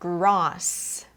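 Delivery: 'grass' with a long open 'ah'; British long A. Shown as a demonstration. Teacher giving a British example, 'ah' in 'grass'. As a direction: say 'grass' as 'grahss'. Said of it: "you say".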